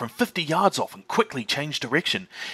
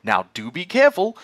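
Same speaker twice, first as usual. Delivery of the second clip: much higher, lilting mother fox voice; Mrs Fox; 7 semitones higher, 7 dB louder than usual. Acted. Mrs Fox asking her husband for ducks, high and sweet. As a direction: ask sweetly for supper. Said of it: "said Missus Fox".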